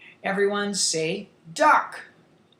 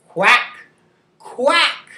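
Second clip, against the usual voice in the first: loud quacks, second rising higher; duck quack; 3 semitones higher, 6 dB louder than usual. Shown as a demonstration. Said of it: "talk about the sounds".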